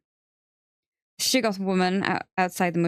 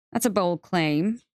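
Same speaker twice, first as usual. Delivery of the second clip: vaguely amused; slower than usual. Acted. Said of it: "She sounded vaguely amused".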